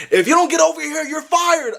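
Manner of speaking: high, mock threatening boss voice; mock angry boss. Narrator imitating his manager threatening to fire him. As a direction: squeak out the boss's threat.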